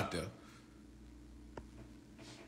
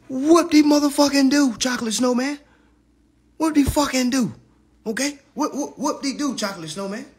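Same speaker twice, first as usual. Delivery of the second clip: mocking sarcasm; 7 semitones higher than usual. Real, not acted. Mocking the rival's work.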